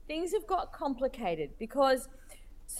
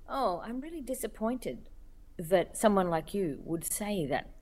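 mock-disappointed tone, sinking lower; 4 semitones lower than usual. Critic emailing a cartoonist about her cartoon, mock disappointed. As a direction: let them down with patronizing disappointment. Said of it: "it comes in with the tone of".

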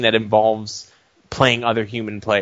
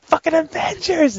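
high-pitched mock rant; mock outburst. Answering his wife, a high hammed-up outburst. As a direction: blurt it like a hammed-up tantrum.

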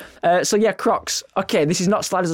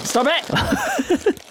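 laughing protest; 12 semitones higher than usual. Real, not acted. Laughing at cohost's antics.

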